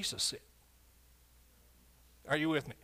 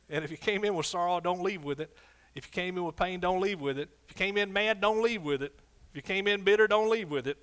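repeated lines growing louder and higher toward "bitter"; preaching build; 3 semitones higher, 5 dB louder than usual. Acted. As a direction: build each "don't leave with it" like a rising altar call. Repeated call building in pulpit.

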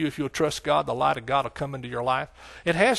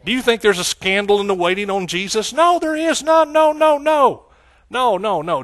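emphatic denial; 6 semitones higher, 5 dB louder than usual. Real, not acted. Preacher denying any scandal on Jesus, emphatic. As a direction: build from the question to a ringing denial. Rhetorical question answered emphatically.

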